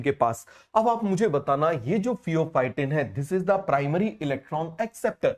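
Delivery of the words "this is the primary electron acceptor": very slow, word by word; dictating pace, each word spaced; slow dictation. Shown as a demonstration. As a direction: spell it out slowly for notes. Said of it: "बताओ जरा".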